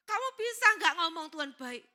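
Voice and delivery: loud, high, quick acted question; insistent question. God asks the preacher to say He is good, insistently. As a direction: press the question hard, then ease off. God's question repeated with force.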